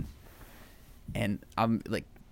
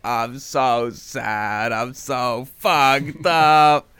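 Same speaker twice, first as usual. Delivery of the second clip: loud, very drawn-out mock wail, building louder; hammed-up breakdown; 2 semitones higher, 11 dB louder, much slower than usual. Fan acting out Howard's emotional breakdown, wailing. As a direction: wail it slowly, like a film meltdown. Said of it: "I love his emotional breakdown".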